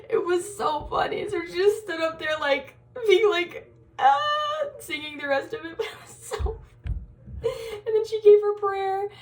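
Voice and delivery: high-pitched, breaking into laughter; giggling through words. Real, not acted. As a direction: tell it while helplessly amused. Still laughing at the story.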